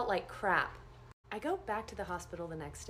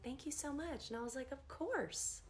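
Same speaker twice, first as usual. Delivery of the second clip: quiet; 5 semitones higher, 8 dB quieter than usual. Retold or imitated. Tender hug scene in dream.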